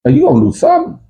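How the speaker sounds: high mocking taunt; sneering cellmate. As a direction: jeer at him in a high voice. Mocking the quitter.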